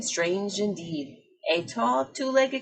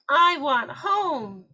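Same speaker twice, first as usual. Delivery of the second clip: wailing; 5 semitones higher, 4 dB louder, much slower than usual. Acted. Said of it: "she wailed".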